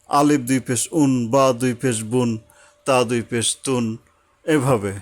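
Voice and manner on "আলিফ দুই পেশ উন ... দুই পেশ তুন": letter, then দুই পেশ, then the joined un sound; deliberate drill that lands each un; spelling out Arabic sounds. Shown as a demonstration. Teacher spelling tanween with pesh for the class. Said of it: "পেশ দিয়ে বলি".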